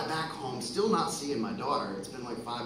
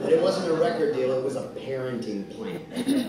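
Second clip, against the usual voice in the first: laughing; 6 dB louder than usual. Real, not acted. Laughing at own bad luck.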